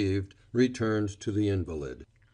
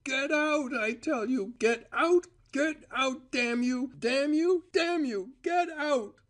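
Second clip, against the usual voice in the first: much higher choked screams; screaming, voice thickened. A narrator's reading. Cora forcing Val out, choked screaming. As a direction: scream through a choking throat. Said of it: "kept on screaming".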